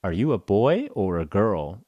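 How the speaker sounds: a patient receptionist repeating herself slowly; slowed repeat. Retold or imitated. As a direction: spell it out slowly for someone confused. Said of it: "And they were like".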